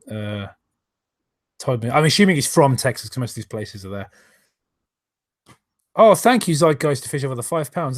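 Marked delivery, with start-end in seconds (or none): 5.9-8.0 excited thanks. Real, not acted. Thanking a donor.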